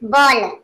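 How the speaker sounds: "बॉल" with a rounded aw vowel; vowel demonstration. Shown as a demonstration. Teacher shows students the reading, "बॉल" with an aw vowel. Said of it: "इस तरह से".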